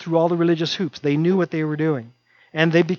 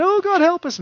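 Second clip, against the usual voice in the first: cornered people begging God; desperate pleading; 13 semitones higher than usual. Retold or imitated. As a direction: plead with God to bail them out. People crying out again.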